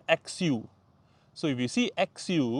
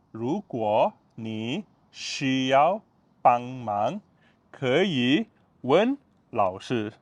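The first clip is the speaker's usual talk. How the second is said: slow; much slower than usual. Shown as a demonstration. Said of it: "follow me".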